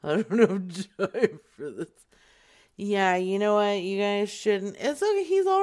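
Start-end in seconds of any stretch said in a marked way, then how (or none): 0.0-1.9 lightly growled mock threat; playful imitation of a gruff caller; mimicking threatening caller.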